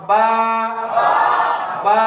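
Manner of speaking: বা with both lips pressed, then opened; lips released. Shown as a demonstration. Teacher showing children how বা leaves the lips. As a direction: pop বা off closed lips. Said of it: "ছাড়লে কি বা হয়ে যাবে".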